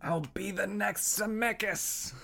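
high, slow, hammed-up director voice; mock ambitious director. Cohost joining the bit as the proud director, hammed-up grandiose. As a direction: draw it out high as a pretend self-important auteur.

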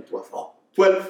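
slow, drawn-out realization; slow realizing. Retold or imitated. Boy counting in English to answer his age, slow. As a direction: find the word slowly, then land it.

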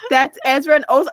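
exasperated insistence. Retold or imitated. Retelling the argument over the video, exasperated. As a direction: imitate arguing with a confused friend.

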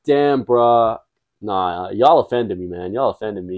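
lightly voiced American dude, slow; mock-offended American bro; American accent. Chad answering a doubting guy, light mock American accent. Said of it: "Your accent's on point".

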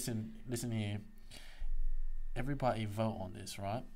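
put-on rallying the audience in a British accent. Co-host calling a listener vote, put-on British accent. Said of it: "Stop using the accent".

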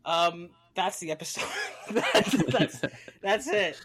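laughing through the words; can't stop laughing while talking. Real, not acted.

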